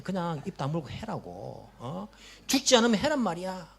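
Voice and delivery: scornful, scolding comparison; imagined harsh Jesus. Retold or imitated. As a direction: play a Jesus who belittles their pain. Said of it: "예수님께서 이렇게 말씀하신다면".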